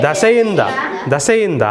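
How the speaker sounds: ದಸೆಯಿಂದ said through a laugh; laughing correction. Real, not acted. Teacher laughing at his own slip while correcting it.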